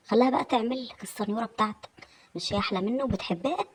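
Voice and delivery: lilting, needling taunt; jealous sarcasm. Acted. Wife alone taunting absent husband about his other woman, sarcastic. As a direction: needle him, voice swinging up to the final question.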